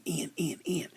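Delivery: high urgent call to box. Retold or imitated. Pit crew calling its rider in, high urgent call. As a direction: wave the rider in, pitch up.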